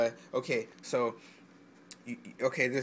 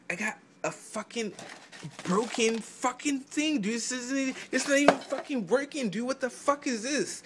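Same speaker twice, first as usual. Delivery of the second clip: imitating a scammed buyer, rising higher as he gets upset; 3 semitones higher than usual. A buyer with a broken item, mock-complaining with rising pitch. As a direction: whine like a guy who just got ripped off, pitch climbing. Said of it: "you're like".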